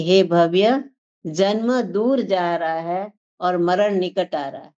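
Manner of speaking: slow, weighty scripture line; slow solemn quote. Shown as a demonstration. Preacher repeating the sage's warning to listeners, slow and solemn. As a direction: let each word of the warning land slowly. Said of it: "क्या कहते हैं कि".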